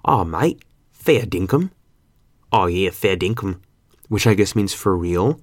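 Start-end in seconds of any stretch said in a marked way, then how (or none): 0.0-1.7 light imitation of Australian workmates; Australian accent. Quoting Australian guys at work, light Aussie accent. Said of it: "There's Australian guys at my work that say". 2.5-3.6 light mock Aussie agreement; Australian accent. Imitating Australian guys at work, mild Australian accent. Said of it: "Australian guys at my work".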